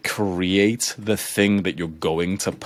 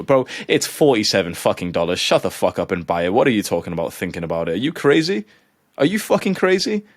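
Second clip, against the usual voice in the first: exasperated rant; 2 semitones higher than usual. Real, not acted. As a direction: scold him, building to disbelief. Ranting at the hesitant driver.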